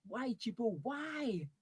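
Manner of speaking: high, drawn-out lament; despairing wail. Acted. Partner laments the shaving, in a high wail. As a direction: wail it in mock tragedy.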